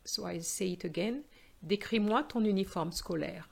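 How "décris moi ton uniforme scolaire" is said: "Décris-moi ton uniforme scolaire" with the pitch falling to the end; falling tune. Shown as a demonstration. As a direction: say it as an instruction, not a question. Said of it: "The voice goes down".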